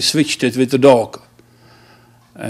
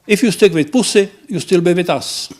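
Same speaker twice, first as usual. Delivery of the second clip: laughing punchline; 6 semitones higher than usual. Acted. Punchline of eulogy joke.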